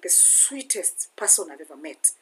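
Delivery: whispered, soft tribute; hushed whisper. Real, not acted. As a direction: breathe it out softly, almost unvoiced. Tender aside about late friend.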